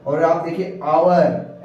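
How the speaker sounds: आवर said slowly, h dropped; silent h. Shown as a demonstration. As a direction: stretch out आवर like "our". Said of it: "H है जो कि consonant है".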